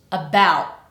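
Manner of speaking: ABOUT cut short in the throat; glottal stop t. Shown as a demonstration. Teacher asks learners to listen again, glottal stop. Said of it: "I'm using a glottal stop at the end".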